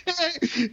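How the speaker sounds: high burst of laughter. Real, not acted. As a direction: laugh along. Laughs along.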